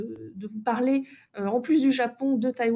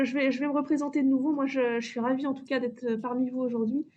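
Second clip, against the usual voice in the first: muffled behind a face mask; speaking through a mask. Real, not acted. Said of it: "j'espère que vous m'entendez bien avec le masque".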